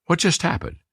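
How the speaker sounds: high, puzzled inner voice; a startled audience member wondering aloud; puzzled thought. Retold or imitated. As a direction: voice the listener's sudden confusion. Makes them think.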